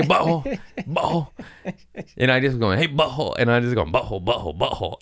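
high, teasing name-calling; mocking taunt. Comedian needling an angry heckler, mocking taunt. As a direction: needle him with a high-pitched jeer.

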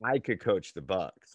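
chuckling through the words; laughing. Real, not acted. Host joking about an easy coaching job, laughing.

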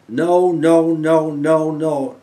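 a loud, firm no at the door; mock farmer brushing her off; refusing farmer. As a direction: turn her away flatly.

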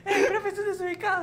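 high, whiny mock student; put-on offended pupil. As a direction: protest to teacher in a high voice. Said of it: "vos sos los alumnos".

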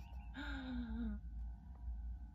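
long breathy gasp; awed gasp. Acted. Jellyfish spots alien jellyfish, gasping. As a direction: draw breath in wonder.

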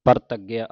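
ਪ੍ਰਤੱਗਿਆ with a tight double g; tightly doubled g. Shown as a demonstration. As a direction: press hard on the gg in ਪ੍ਰਤੱਗਿਆ. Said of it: "ਅਧਿਕ ਲਾ ਕੇ ਕੱਸ ਕੇ ਬੋਲਣਾ ਹੈ".

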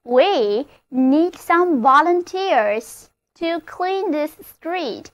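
slowed-down example sentence, every word clear; slow model reading. Shown as a demonstration. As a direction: read it slowly for learners to copy. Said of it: "例如".

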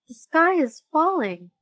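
high, loud cry of alarm; frightened chick's loud squawk; panicked cry. Acted. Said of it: "cried Chicken Licken".

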